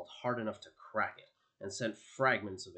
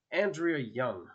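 louder, higher, emphatic call of a name; raised voice; 4 semitones higher, 7 dB louder, slower than usual. A narrator's reading. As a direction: raise your voice to confront him. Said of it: "Victoria raised her voice".

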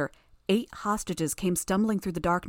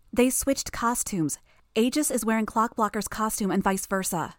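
higher-pitched, insistent reveal; urgent explanation; 4 semitones higher than usual. Acted. Tattletale explaining the swapped costumes to Gru, urgent and insistent.

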